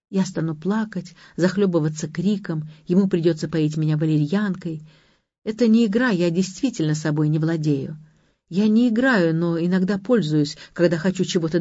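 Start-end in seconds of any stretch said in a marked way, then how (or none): none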